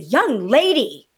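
slow, drawn-out telling-off; retold schoolmarmish reprimand; condescending scolding. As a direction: scold like a stern elder. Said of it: "I am condescending".

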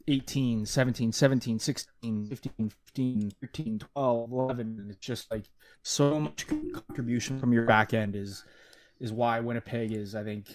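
flat monotone robot delivery. Acted. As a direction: read the numbers like a machine. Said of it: "Man, Joe, you sounded like a robot there".

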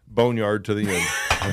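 slow, shouted team cry; rallying shout. Real, not acted. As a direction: proclaim it like a motto. Rallying cry between friends.

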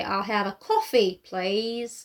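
put-on slow American accent drifting into Australian; American accent slipping Australian. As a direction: let the American accent turn Australian on the last word. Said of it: "You went a bit Australian for the last bit".

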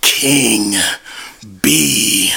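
ring announcer. Acted. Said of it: "fire introduction".

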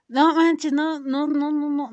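high loud disbelieving no no no; shocked outburst. Real, not acted. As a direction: blurt it out in shock.

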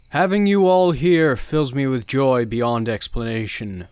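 slow, loud, solemn preacher; cult leader preaching. Acted. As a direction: preach with grand calm authority.

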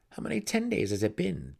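dry, weary jab at his sister; sarcastic brother. Acted. Brother sarcastically asks his sister how long they've hunted. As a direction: needle her with mock boredom. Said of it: "revealed his sarcasm".

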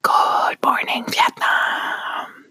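a mock big morning-show call, kept to a whisper; drawn-out DJ call. Whispering the DJ's greeting, very slow and stretched. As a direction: stretch every word like a hushed radio host's greeting.

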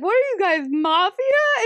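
high-pitched mock shock; high, incredulous character question; acted incredulity. Retelling character's shocked question in alley.

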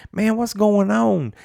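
mock-irritated buddy being questioned; hammed-up exasperation on the phone; exasperated friend. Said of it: "that ain't doing it justice like how he did it".

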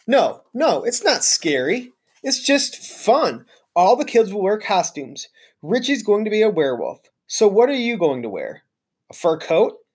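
easy, joking janitor voice; lightly voiced janitor.

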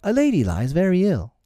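put-on high, earnest child's report; explaining boy. A narrator's reading. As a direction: tell the doctor gravely in a high voice. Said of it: "Peter explained".

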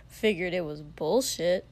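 gravelly rough-voiced scoff; smoker's rasp. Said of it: "voice like gravel in Shoto's ears".

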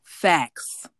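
light impression, loud and drawn out; lightly mimic, stretching one loud word; C Will Holler impression. Co-host agreeing in a borrowed voice, light impression. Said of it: "in my C Will Holler voice".

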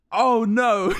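the penny drops, mock dismay; dawning horror.

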